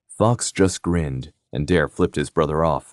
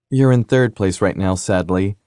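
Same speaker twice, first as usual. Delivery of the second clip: not sorry; 2 semitones higher, 4 dB louder than usual. Acted. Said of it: "not at all sorry from how it sounded".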